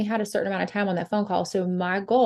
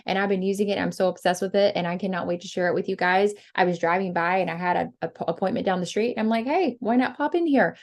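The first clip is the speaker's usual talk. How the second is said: casual chill pitch. Shown as a demonstration. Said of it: "just be so casual and chill".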